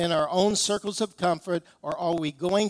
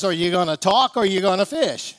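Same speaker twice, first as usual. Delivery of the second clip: laughing punchline; 5 dB louder than usual. Retold or imitated. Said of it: "and simply says".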